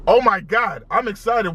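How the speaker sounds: can't contain the excitement; excited yell. Real, not acted. Host greets viewers, bursting with excitement. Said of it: "Why am I yelling?".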